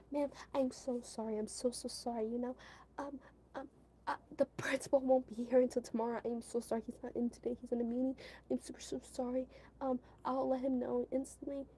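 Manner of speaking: grovel politely to an angry parent; nervous apologizing. Retold or imitated.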